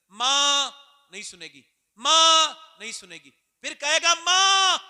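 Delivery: loud, high desperate call to mother. Acted. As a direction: call to her across the distance. Son calling his mother. (बेटा माँ को ज़ोर से पुकारता है)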